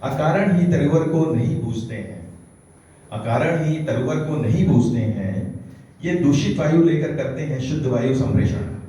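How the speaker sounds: measured, declaimed verse; poetry recitation. Acted. Poet sharing a short verse on trees, declaimed recitation. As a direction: recite each line firmly, letting it land.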